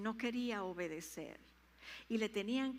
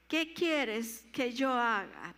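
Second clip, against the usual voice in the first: slow, loud repetition; 7 dB louder, slower than usual. Shown as a demonstration. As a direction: repeat it slowly for the church. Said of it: "vamos a repetirle". (repetición lenta y fuerte)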